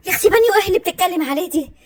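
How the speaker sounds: building furious yell; angry shout. Acted. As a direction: scream at the rival who insulted her. Angry escalating quarrel, shouting.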